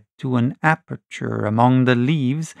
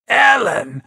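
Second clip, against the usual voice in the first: much higher cry; shocked cry; 10 semitones higher than usual. Acted. Tom learning of Allen's death, crying out. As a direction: cry the name out. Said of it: "he cried".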